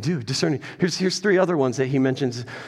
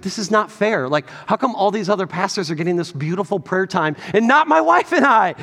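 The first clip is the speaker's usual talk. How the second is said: self-pity whine; 4 semitones higher than usual. Retold or imitated. Pastor retelling his sulk at being passed over, mock whine. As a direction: ham up a childish sulk at God. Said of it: "I started throwing a little self-pity party".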